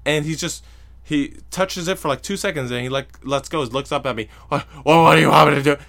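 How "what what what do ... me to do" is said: loud, exasperated mock whine; grumpy protest. Grumpy man in the chair answering a stranger, loud mock protest. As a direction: throw the question back loudly, hammed-up.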